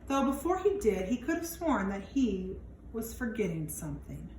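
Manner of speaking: put-on lively read-aloud for young kids; expressive picture-book narration; storybook reading. A narrator's reading. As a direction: read it out like storytime for little ones. Reads picture book to children.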